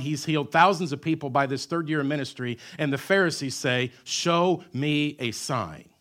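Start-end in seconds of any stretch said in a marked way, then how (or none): 4.0-5.9 very slow, demanding taunt; demanding mock. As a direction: stretch it out like a smug challenge. Voicing the demanding Pharisees.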